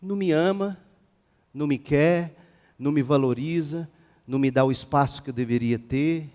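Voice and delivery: understated mock grievance, phrase by phrase; imitating hurt youngsters. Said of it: "É assim que a gente ouve".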